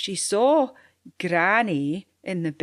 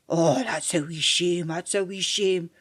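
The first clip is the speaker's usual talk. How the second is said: friendly sympathy. Acted. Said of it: "gaed his best friendly patter".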